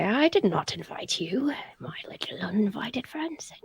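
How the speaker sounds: hushed mock whisper; whisper to germs. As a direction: playfully whisper to the unwanted germs.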